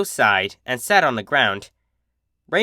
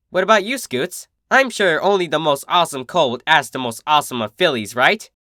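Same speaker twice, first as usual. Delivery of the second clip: a hint of brash big sister, friendly; cheerful, teasing sporty pony; lightly voiced tomboy; 3 semitones higher than usual. Narrator voices Rainbow Dash.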